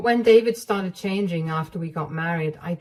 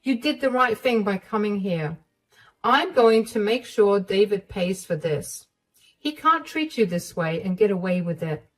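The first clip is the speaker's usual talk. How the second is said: a touch higher, resolute vow; determined mother-in-law; 3 semitones higher than usual. Acted. Mother-in-law vowing to make David pay, resolute. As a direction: promise he'll pay. Sarah vows action.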